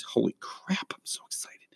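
excited whisper, voice dropped away; whispered aside. Real, not acted. To listeners about the t-shirt, an excited whisper. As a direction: let it slip out as a breathless secret.

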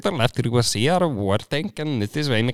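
quick-patter mock Indian accent; comic Indian voice. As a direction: imitate an Indian speaker. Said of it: "An Indian dude".

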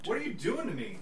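strained squeak from the heat; pained high whine; mouth burning from spicy food. Real, not acted. Burning mouth from hot sauce.

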